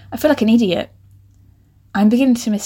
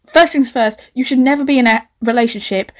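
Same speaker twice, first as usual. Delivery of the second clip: ordinary delivery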